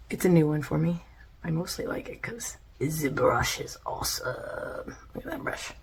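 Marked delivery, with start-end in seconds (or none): 1.4-5.7 whispering. Real, not acted. Soft aside, mascara on.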